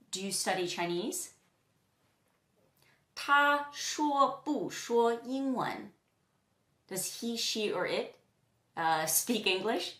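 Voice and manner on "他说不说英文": very slow, higher-pitched Mandarin example; slow model question. Shown as a demonstration. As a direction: draw out each syllable for learners. Teacher models a Chinese example question.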